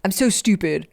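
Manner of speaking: a hint of disgusted self-scolding; understated self-put-down; mock self-berating. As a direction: scold yourself, lightly acted. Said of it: "calling ourselves stupid".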